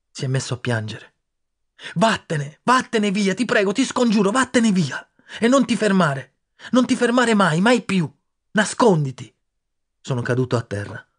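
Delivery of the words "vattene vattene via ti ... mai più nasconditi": very high, loud desperate begging; boy begging his weeping friend to hide; frantic pleading. Acted. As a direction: implore him with everything.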